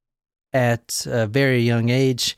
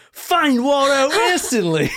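infomercial voice; 10 semitones higher than usual. Pretend. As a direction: sell it like a late-night TV ad. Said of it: "Way to make it sound like an infomercial".

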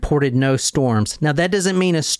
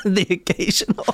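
repeating it while still laughing; laughing through words. Real, not acted. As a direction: giggle the words out. Repeating the misread name, laughing.

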